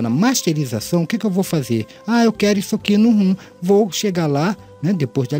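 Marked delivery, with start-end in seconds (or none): none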